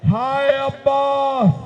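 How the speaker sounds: slow, loud cry of mourning; drawn-out grieving wail; wailing lament. Acted. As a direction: wail the name as a grieving mother. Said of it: "मातम करने लगी".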